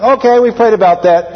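playfully over-eager agreement; mock instant decision. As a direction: jump straight to a comic yes. Jokingly instant prayer decision.

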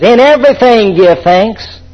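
slow, stressed reading of "everything"; emphatic scripture. Acted. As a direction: lean on "everything", slowly. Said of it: "I can say".

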